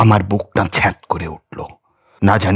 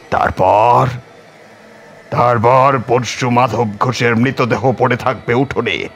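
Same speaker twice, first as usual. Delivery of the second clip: lightly voiced scheming holy man, a bit higher; sinister sadhu; 4 semitones higher than usual. Sinister sadhu plotting murder.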